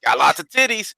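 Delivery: lightly voiced slow friend; drawn-out mock reply in an altered voice; imitated friends. Friends reacting to a show pitch, slow imitated drawl.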